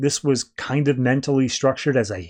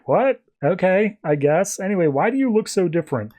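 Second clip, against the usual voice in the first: startled Ted; 5 semitones higher than usual. Retold or imitated. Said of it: "he's like".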